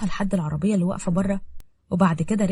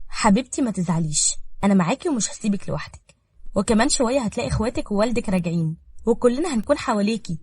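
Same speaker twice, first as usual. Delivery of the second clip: reassuring. Acted. Zahra consoling Nada and promising to stay, reassuring. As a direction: comfort her firmly and tenderly.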